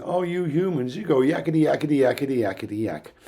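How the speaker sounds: hint of an animal mimicking human babble; beluga mimicking humans. Lecturer voices the beluga going yak at humans, lightly mocking chatter. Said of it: "the beluga was more or less going".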